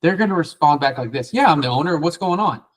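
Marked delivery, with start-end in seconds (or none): 1.3-2.6 intrigued higher tone. Retold or imitated. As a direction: voice rising with curiosity. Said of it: "the influx in their voice from going higher and raising their tone".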